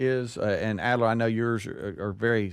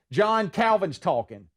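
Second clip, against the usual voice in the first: irritated mom; 6 semitones higher than usual. Retold or imitated. Mom snaps at coaching dad.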